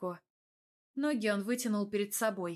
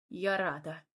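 grumbled; 3 semitones lower than usual. Acted. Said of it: "буркнула я".

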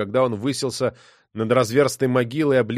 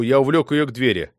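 usual speaking voice

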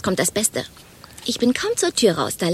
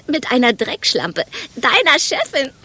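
slow, deliberate insult rising higher at the end; venomous quoted insult; 4 semitones higher than usual. Acted. Woman quoting a colleague's jab at the boss, venomous and drawn-out. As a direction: draw it out with relish.

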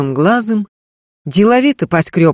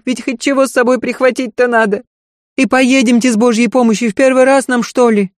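higher, louder, fast and fretful servant; a panicked housemaid running up; alarmed old servant woman, higher and louder; flustered maid; 7 semitones higher, 3 dB louder than usual. Acted. Marfa voiced high.

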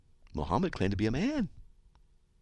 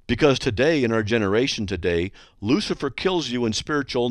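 hate mail read-out; 4 semitones higher, 4 dB louder than usual. Acted. Reading the whole hate mail.

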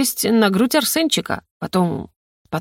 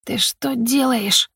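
indignant hiss; 5 semitones higher, slower than usual. A narrator's reading. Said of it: "возмущённо прошипела ему".

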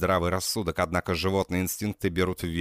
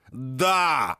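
a touch of a shout; understated shouted yes; mild yell; 5 semitones higher than usual. A narrator's reading. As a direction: bark a yes at her. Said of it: "ору я".

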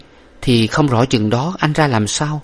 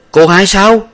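alarmed question; 11 semitones higher, 7 dB louder, slower than usual. A narrator's reading. Master asks urgently.

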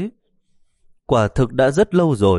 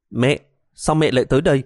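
surprised cry; 4 semitones higher than usual. Acted. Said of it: "há mồm kêu lên".

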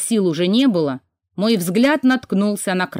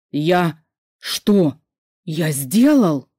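lost and quiet; 2 semitones lower, much slower than usual. A narrator's reading. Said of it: "растерянным и тихим голосом спросил брат".

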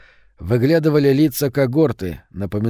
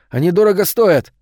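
higher-pitched protest; raised, upset boyish protest; mild shout; 6 semitones higher, 4 dB louder than usual. A narrator's reading. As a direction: plead loudly for them to be careful. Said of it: "крикнул Томми".

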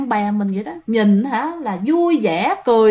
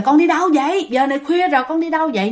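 raised pitch, mildly urgent call; retold calling out; 5 semitones higher, faster than usual. Parents to daughter leaving at night, mock urgent call. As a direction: imitate parents calling after someone. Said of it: "hai bác kêu quá trời".

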